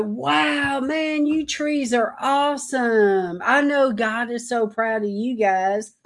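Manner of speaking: gushing over the trees like a proud parent; awed praise to trees. Retold or imitated. Admiring trees while driving.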